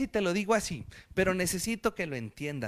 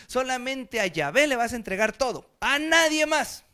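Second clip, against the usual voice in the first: commanding God; 4 semitones higher, 4 dB louder than usual. Acted. God's commandment quoted in sermon.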